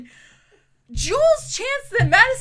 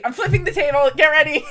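mock irate; 6 dB louder, faster than usual. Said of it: "I'm irate".

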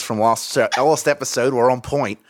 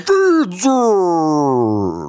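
higher cheer of the title; excited cheer; 4 semitones higher, 4 dB louder than usual. Acted. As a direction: hype it up. Segment title shout.

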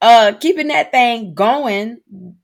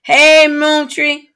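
lightly voiced Freddie Jean greeting; mock livestream host greeting viewers; imitating Freddie Jean; 5 semitones higher, much slower than usual. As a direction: drag out the hello like a live host. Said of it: "How did she pronounce your name?".

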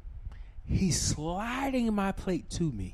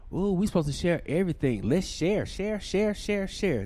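mocking. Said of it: "Y'all think".

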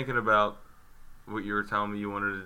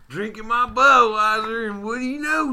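goofy narrator voice; 12 semitones higher, 11 dB louder than usual. Pretend. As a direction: ham it up like a tall tale. Comic bar story intro voice.

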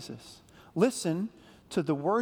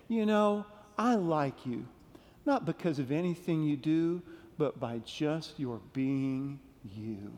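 gentle Mister Rogers; 2 semitones lower, 3 dB quieter than usual. Retold or imitated. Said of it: "he would say".

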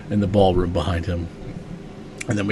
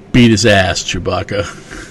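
louder, punchy address straight at the listener; dramatic call to the reader; 4 dB louder, slower than usual. Acted. Host urging the reader on, louder and punchy. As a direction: egg the reader on like a hype man.

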